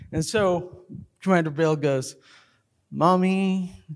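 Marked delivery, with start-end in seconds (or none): 2.9-3.8 half-hearted, reluctant "mommy"; grudging, understated delivery; reluctant mumbled plea. Retold or imitated. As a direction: say it without meaning it. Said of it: "Say it like you mean it".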